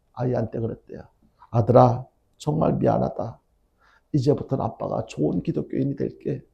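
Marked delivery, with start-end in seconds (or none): 1.5-6.4 soft, subdued apology, only a touch of tearfulness; retold tearful apology. Father apologizing to his son after crying, softly retold tearful apology. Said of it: "울면서 그 아들한테 그렇게 이야기하니까".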